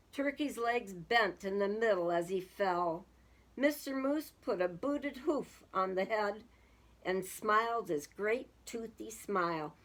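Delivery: measured picture-book reading; storybook narrator; story narration. A narrator's reading. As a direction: read it out as a story for children. Reads a story aloud.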